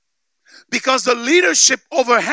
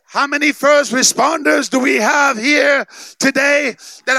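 preach. Real, not acted. Preacher building to full force.

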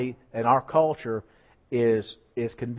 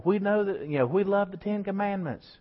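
high-pitched mock rallying cry; imitating a stadium preacher; hyped rally call; 7 semitones higher than usual. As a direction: keep the crowd fired up with a high call.

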